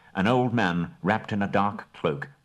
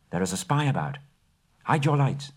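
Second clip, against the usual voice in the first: elf warning; 4 semitones higher than usual. Acted. Elves hunting the intruder.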